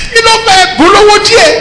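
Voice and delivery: high mocking voice in Yoruba; mocking congregant. Preacher mimicking church members to the congregation, high mocking voice.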